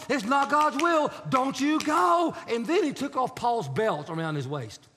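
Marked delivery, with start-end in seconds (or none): 0.1-2.3 slow, raised warning; loud prophetic warning. Retold or imitated. Agabus forbids Paul to go: slow raised warning. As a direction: drag it out loud as a stern prophet.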